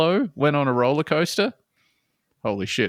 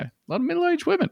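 high squeal; faster than usual. Retold or imitated. Excited repeat of funny detail.

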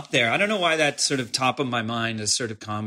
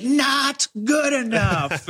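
deadpan impression; 12 semitones higher, 3 dB louder, much slower than usual. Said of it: "he was like".

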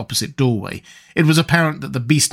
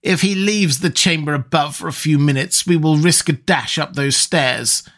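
higher, gleeful villain's voice, savouring the carnage; gloating sorcerer Nabonidus; 3 semitones higher than usual. Acted. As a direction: gloat over the slaughter like a fiend.

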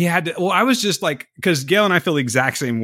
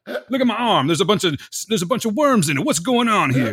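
lightly hammed-up panic, a bit higher; a hint of a frightened TV hero; mock Harold Perrineau; 6 semitones higher than usual. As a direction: parody an actor overplaying alarm. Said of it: "That's all he does".

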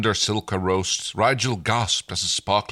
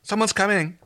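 put-on high Valley Girl lilt; 12 semitones higher, 3 dB louder than usual. Stark warning Jewel, in a Valley Girl voice. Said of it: "he's full Valley Girl".

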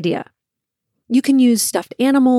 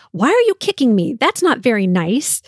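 mock upset. Mom playing with kids at the swing, mock upset. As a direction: act mildly hurt, only pretending. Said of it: "pretend to be very upset".

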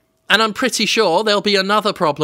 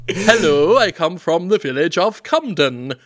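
hammed-up accent of a little English village; mock English village accent, claimed as native; made-up village accent. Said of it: "That's the accent we all have".

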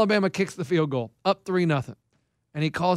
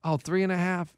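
Keith; 2 semitones lower, 7 dB quieter, slower than usual. Retold or imitated. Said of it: "he goes".

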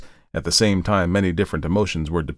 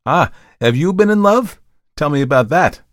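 high, loud, eager questioning; pry with strange, eager curiosity; 10 semitones higher, 7 dB louder than usual. A narrator's reading. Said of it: "cried Markheim with a strange curiosity".

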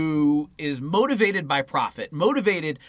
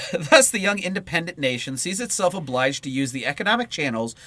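measured read-aloud voice; book reading. Acted. Co-host reading political book to partner, read-aloud style. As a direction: read the political text out in full phrases.

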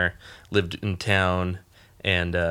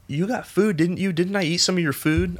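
much higher, mock-puzzled questioning; hungover friend recalling; 10 semitones higher than usual. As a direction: play her half-remembering the night. Friend voiced next morning.

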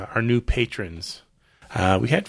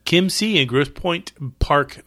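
slow careful reading; 5 semitones higher, 4 dB louder than usual. Shown as a demonstration. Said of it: "Why is that so hard to say?".

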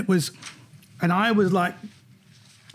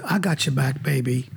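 imitated American star backing a friend; Whoopi Goldberg; 3 semitones lower than usual. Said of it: "She said".

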